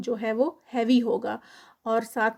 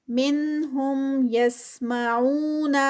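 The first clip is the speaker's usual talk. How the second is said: slow drawn-out tajweed recitation, vowels held; Quran recitation; much slower than usual. Shown as a demonstration. Tajweed teacher reciting a verse for students, slow melodic recitation. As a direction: chant each word with its lengthening. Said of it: "او پہ ٹو counts".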